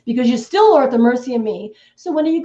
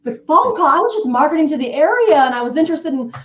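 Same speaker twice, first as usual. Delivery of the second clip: sympathetic caller; 2 semitones higher than usual. Shown as a demonstration. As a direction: soothe the grieving owner. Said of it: "That's when you say".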